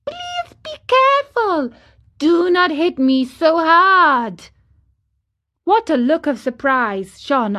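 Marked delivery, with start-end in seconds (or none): 0.0-4.5 a very high, small voice begging not to be hit; beseeching wee voice. Acted. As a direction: beg like a tiny frightened thing. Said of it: "a wee little voice say in a beseeching tone".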